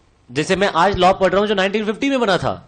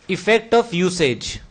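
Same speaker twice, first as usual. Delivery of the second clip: stretched out word by word, very slow; slow drilled term; 3 semitones lower, much slower than usual. Shown as a demonstration. Teacher slowly drills the rule name for class, very slow. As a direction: spell out the key term slowly for students.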